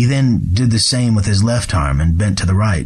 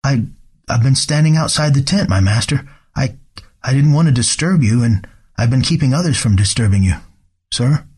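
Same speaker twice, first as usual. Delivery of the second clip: stammering frightened servant; nervous stammer; 4 semitones higher than usual. Acted. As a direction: stumble over the first words. Servant stammers before master.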